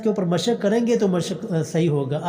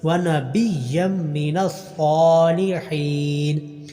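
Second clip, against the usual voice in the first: slow drawn-out tajweed chant; slow tarteel recitation; Quran recitation; much slower than usual. Shown as a demonstration. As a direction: recite each vowel long and measured. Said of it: "صاد کے اوپر کھڑی زبر ہے".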